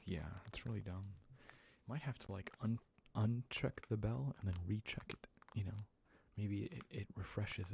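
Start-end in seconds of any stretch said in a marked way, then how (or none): 2.6-7.7 gentle ASMR whisper. Acted. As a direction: whisper it close, like a secret. ASMR chat to viewers.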